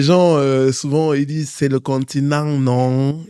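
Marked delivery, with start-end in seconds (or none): 1.5-3.2 a light put-on Cameroonian accent, ending in a laugh; teasing Cameroonian accent quote; mock Cameroonian accent. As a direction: playfully imitate how people hear his Cameroonian accent. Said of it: "Je vais éviter de prendre l'accent".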